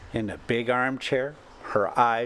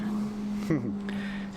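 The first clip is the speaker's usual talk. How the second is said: soft breathy laugh; 3 semitones higher, 5 dB quieter than usual. A narrator's reading.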